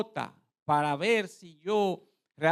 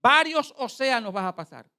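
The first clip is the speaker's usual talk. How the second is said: raised, emphatic prophetic voice; prophet's proclamation; 6 semitones higher, 7 dB louder than usual. Retold or imitated. Preacher repeats the man's prophecy for the congregation, emphatic proclamation. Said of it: "Oiga lo que este hombre está diciendo".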